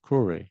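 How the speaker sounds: Clory said with a long o and a tapped r; Japanese-accented Crawley. Retold or imitated. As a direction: say Clory as kʰlɔri, open o, flapped r. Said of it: "she said it in such a way".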